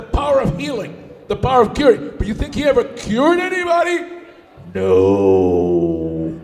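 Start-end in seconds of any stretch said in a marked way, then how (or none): 4.7-6.4 emphatic no. Acted. Answers own question for effect.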